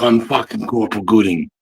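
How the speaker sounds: lightly voiced instructor laying down the law; corporal's first speech to new recruits, lightly acted and menacing; drill corporal. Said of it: "And I'll be like".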